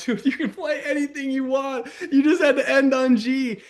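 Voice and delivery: high, giggly retelling; laughing. Retold or imitated. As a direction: laugh while telling your friend the obvious. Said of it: "I was laughing so hard".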